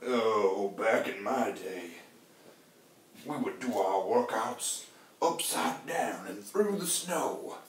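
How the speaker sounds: lightly voiced grumpy old-timer; slow mock back-in-my-day rant; Robert Downey Junior in Tropic Thunder. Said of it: "that voice needed to be, uh, Robert Downey Junior from Tropic Thunder".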